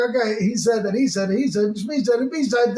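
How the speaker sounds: indifferent recital. Acted. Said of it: "If everybody's just like".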